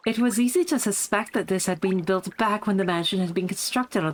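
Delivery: smug posh voice. Acted. Streamer finding the character's voice again, lightly smug and posh. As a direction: recount it with a touch of posh poise.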